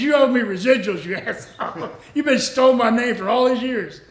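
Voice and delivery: retold gripe broken up by laughter; jokingly cuss out an old friend; playful grievance, chuckling through it; laughing mock cussing. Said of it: "still cusses me every time".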